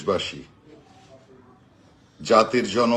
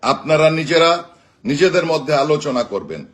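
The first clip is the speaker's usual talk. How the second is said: raised, rallying voice to a crowd; rousing rally speech with slogans; booming rousing general speech; 3 semitones higher than usual. Acted. Rallying political speech, live.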